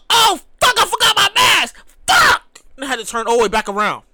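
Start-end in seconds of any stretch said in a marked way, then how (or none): 0.1-2.6 comic exasperated yell; mock dismay. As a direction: shout at forgetting the mask. Retold realization.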